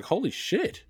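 high-pitched holy shit; stunned to hear people listen; mock amazement.

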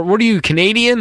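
high-pitched mock-offended question; joking comeback. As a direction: fire back as if offended, in jest. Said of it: "he tried to make a joke back".

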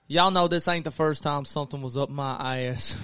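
joking Southern country twang; country accent. Retold or imitated. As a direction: crack the joke in a country accent. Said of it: "I was talking in a country accent".

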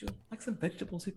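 high, soft and very fast; put-on character voice. Killer offers soup to the mannequin, high put-on voice. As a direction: imitate the killer's dinner voice, tiny and quick. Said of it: "he's doing this whole voice".

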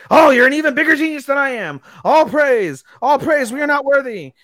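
high, loud fawning praise; hammed-up worship. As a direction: gush like a groveling servant. Mocking servants' worship.

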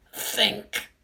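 "think" pushed up high and tense; high urgent think. Acted. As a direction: squeeze out "think" high and desperate. Urging himself to think.

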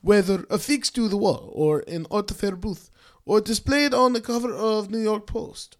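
put-on measured Italian-accented artist's statement; Maurizio. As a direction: quote read in a light Italian accent. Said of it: "Maurizio said".

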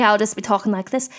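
sudden put-on Essex accent. Shown as a demonstration. Host showing it's second nature, sudden Essex accent. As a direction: switch into playful Essex. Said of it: "I love doing an Essex accent".

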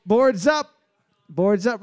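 loud host call, rising. Acted. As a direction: announce it like a game show host. Quiz host calling boards up.

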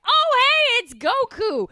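high, eager greeting; excited Krillin. Retold or imitated. Podcaster mimicking Krillin greeting fake Goku, high and eager. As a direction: chirp it like an overeager friend. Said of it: "Krillin's like".

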